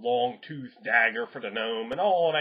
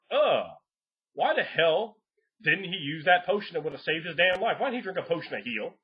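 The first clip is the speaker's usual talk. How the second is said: exasperated player; 6 semitones higher, 4 dB louder than usual. Retold or imitated. Teen player outraged at villain.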